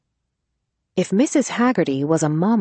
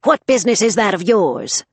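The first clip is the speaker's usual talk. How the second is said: sharp, louder scowling question; scowling retort; 4 semitones higher, 5 dB louder than usual. Acted. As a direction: bite back at a nosy stranger. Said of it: "scowled at the woman".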